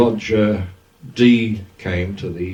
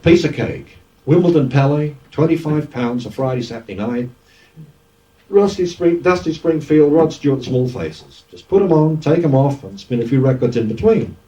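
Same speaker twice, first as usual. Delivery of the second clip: Cockney manager reeling off the bill, pitched up; Cockney accent; 5 semitones higher than usual. Retold or imitated. Manager talking the DJ into a Palais gig, Cockney accent. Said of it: "In a real Cockney accent".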